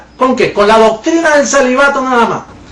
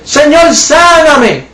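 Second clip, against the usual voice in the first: slow mock plea; 6 semitones higher, much slower than usual. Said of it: "Así es que está el sistema".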